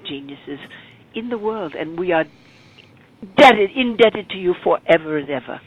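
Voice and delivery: put-on English accent. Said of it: "in his best English accent".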